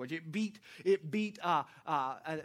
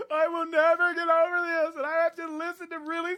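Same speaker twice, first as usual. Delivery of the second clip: mock teenage wail; 10 semitones higher, 8 dB louder than usual. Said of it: "you're crying".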